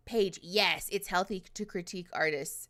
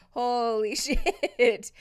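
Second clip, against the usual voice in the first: drawn-out, stunned disbelief; 4 semitones higher, 7 dB louder, much slower than usual. Real, not acted. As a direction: stretch it out, genuinely floored. Thanked for fifty memberships.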